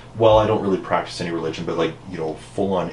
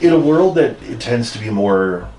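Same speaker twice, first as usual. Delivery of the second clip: epic voice; 3 semitones higher, 5 dB louder than usual. Pretend. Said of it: "my, my epic voice".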